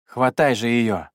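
slow, strange gurgling voice; a gurgling creature voice. Acted. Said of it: "странным булькающим голосом произнёс Лу".

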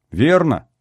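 high-pitched naive agreement; youthful babble. A narrator's reading. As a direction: answer like an eager youngster. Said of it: "пролепетал юный Мишенька".

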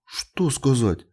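slow, high, curious question; wondering little boy; eager child. A narrator's reading. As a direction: ask with perked-up interest. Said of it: "Гас встрепенулся".

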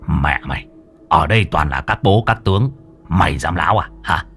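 low-pitched, mildly blustering master; blustering threat. Acted. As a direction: threaten with restrained swagger. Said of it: "Thầy Môn Phọt hùng hổ". (dọa nạt hùng hổ, vừa phải)

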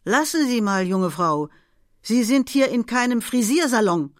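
lightly voiced old lady scolding a young woman; sharp old lady. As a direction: snap the rebuke across the tram car. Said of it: "rief mit scharfer Stimme".

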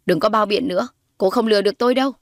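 lightly voiced hostile mother, pressing her accusation; acted, firm scorn; scornful accusing mother. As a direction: accuse her with rising contempt.

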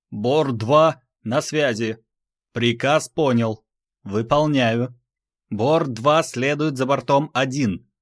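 a second pilot checking in. Acted. Second ship pilot reports.

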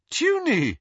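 high, loud surprised cry of a name; calling out. Acted. Lily calls to her sister hiding behind a tree, high and loud.

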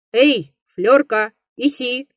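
mild call to a dog. Acted. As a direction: call the dog, stretching the words. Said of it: "крикнул он собаке".

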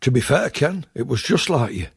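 lightly voiced fair-minded comic character; a hint of a mild, conceding friend; John Shuttleworth. John's voice, same words as Ken's.

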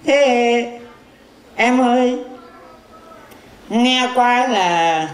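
low, slow crooning flirt. Acted. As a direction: woo her slowly in a low smooth voice. Fortune teller flirting slowly. (tán tỉnh chậm rãi, giọng trầm)

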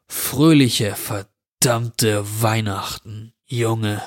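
a touch of sneer, slow on verdammte Weihnachten; the intruder leaves the boy's room with a lightly sneering wish; sneering farewell. Acted. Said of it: "murmelte vor sich hin".

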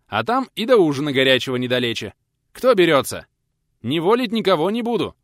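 rousing shouted announcement; shouted speech. A narrator's reading. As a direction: call out to the whole yard of beggars. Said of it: "выкрикнул пенсионер".

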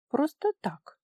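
offhand shrug. A narrator's reading. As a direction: brush it off lightly.

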